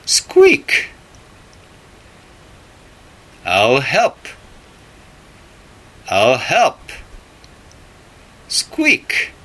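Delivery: very high, tiny mouse voice; squeaky mouse. Acted. Mouse offering to help pull the turnip, very high squeaky voice. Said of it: "The mouse said".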